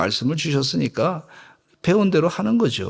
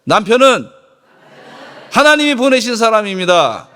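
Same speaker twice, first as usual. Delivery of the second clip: bold declaration; 7 semitones higher, 7 dB louder than usual. Shown as a demonstration. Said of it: "그 아내들도 한번 하시죠".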